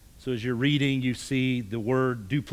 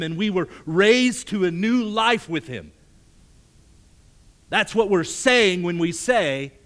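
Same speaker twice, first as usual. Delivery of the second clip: preaching at full force; 8 semitones higher, 10 dB louder than usual. Acted. Preacher pressing the "if we say" statements, fervent and loud. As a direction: drive it home from the pulpit.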